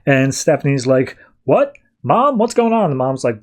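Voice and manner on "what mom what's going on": confused. Retold or imitated. Stephanie wakes up confused.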